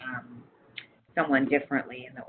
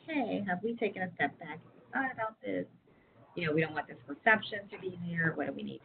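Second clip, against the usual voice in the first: soft, tactful questioning; gentle question; 4 semitones higher, 6 dB quieter than usual. Retold or imitated. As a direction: ask it gently, no blame. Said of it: "instead of saying that".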